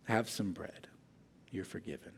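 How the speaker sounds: a gentle smile in the voice, offering forgiveness. A narrator's reading. Amish man forgiving the lying professor, gentle and soft. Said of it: "he offered a gentle smile".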